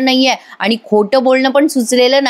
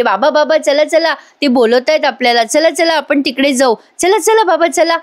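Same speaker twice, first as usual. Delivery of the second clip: higher, eager repeated come on; hurried urging; 4 semitones higher than usual. Retold or imitated. Priya urging her father-in-law to leave, hurried. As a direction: rush them off to escape. Priya hurrying them away.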